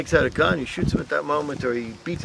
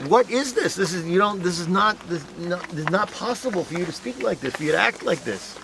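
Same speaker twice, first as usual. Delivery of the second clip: imitating a furious guard; 6 semitones higher than usual. Guard berating Hugo Lowy in retold scene.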